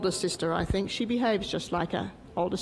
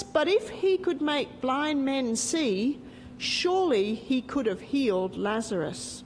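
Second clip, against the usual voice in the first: story narration. Acted. Teacher telling children the story of Lazarus, gentle storytelling. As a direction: unfold the Bible story line by line.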